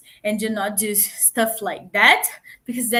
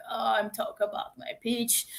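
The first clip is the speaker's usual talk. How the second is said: mumbling bad example; 6 dB quieter than usual. Shown as a demonstration. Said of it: "don't be like that".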